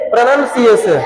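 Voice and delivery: प्रोनंसिएशन with short "nun" in the middle; correct pronunciation. Shown as a demonstration. Teacher models the word for the class, correct pronunciation. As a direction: model प्रोनंसिएशन without any "ow" sound. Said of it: "क्या पढ़ेंगे".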